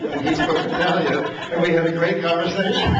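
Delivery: chuckling as he tells it, amused; laughing through it. Real, not acted. To the audience, recalling the archaeologist chat, laughing. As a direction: let the laugh bubble under the words.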